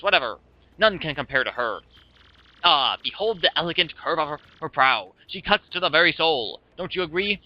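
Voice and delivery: theatrical ship owner, swept away by admiration; grandiose Flavio. Acted. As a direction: show off the ship in florid, dramatic style. Plays Flavio boasting about his ship.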